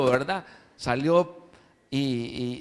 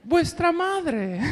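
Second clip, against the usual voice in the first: laughing through the line; 12 semitones higher, much slower than usual. Acted. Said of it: "el lobo le había cambiado la voz".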